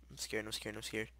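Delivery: hushed, uneasy murmur; quiet, mildly frightened self-talk; scared. Real, not acted. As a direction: say it small and soft, nervously. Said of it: "I'm kinda scared".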